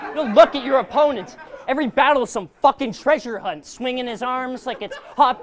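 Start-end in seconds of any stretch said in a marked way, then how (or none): 0.1-1.4 "You don't look at your opponents" punched louder, "look" hit hardest; louder emphatic repeat at the crowd. Acted. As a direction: drive the repeat home louder with a laugh.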